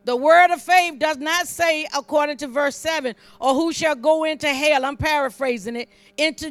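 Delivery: punchy, emphatic scripture preaching; forceful preaching. Real, not acted. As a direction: preach the verse out to the congregation.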